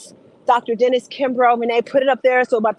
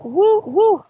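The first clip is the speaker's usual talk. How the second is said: cheering woo; 9 semitones higher than usual. Real, not acted.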